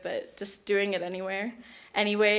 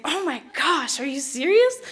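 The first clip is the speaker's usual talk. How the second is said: high, louder retold shock breaking into a laugh; disbelieving; 6 semitones higher, 4 dB louder than usual. Student learns from nominator that she won, amazed. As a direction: re-enact stunned delight, voice jumping up.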